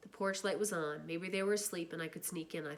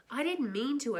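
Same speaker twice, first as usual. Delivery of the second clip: pleading; 7 semitones higher, 5 dB louder than usual. Acted. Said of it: "I pleaded with Derry".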